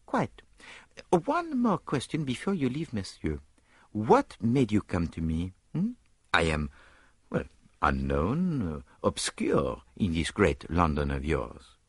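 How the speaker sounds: coy, fishing for compliments; detective asking why they chose him, lightly accented; Poirot's voice. Acted.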